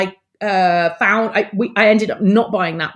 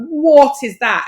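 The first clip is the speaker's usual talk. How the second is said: startled; 7 semitones higher, 6 dB louder, slower than usual. Retold or imitated. Hears the tree cracking.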